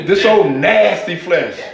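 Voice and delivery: put-on slow, weighted "This old nasty flesh" with disgust; indignant, slowed. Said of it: "hear the indignation in her voice".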